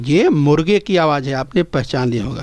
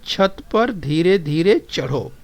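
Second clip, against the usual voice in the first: slow model reading; slower than usual. Shown as a demonstration. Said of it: "इसके बाद देखिए".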